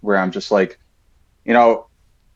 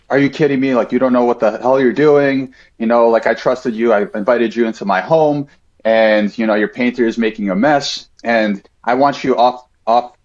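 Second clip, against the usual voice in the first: retold angry rant. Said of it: "he absolutely lost it".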